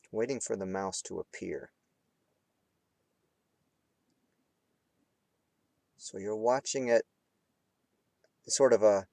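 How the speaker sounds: unhurried meditation guide with long pauses; guided meditation. Real, not acted. Teacher guiding students between hard focus and relaxing, guided meditation. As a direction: lead them through it phrase by phrase, leaving space. Leads candle flame meditation.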